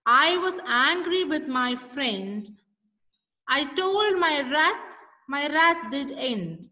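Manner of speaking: slow recital of the verse; poem recitation. Acted. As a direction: lean into each word as a class recitation. Teacher recites stanza to class.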